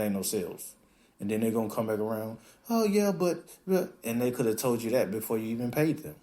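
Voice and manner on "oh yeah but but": high, stammering Oh yeah, but; sheepish promoter caught out, pitched up; mock excuse. Promoter stalling the client after zero sales, high and sheepish.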